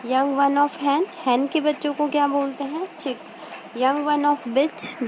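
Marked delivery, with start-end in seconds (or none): 3.8-5.1 slow dictation. Shown as a demonstration. Teacher dictating a question.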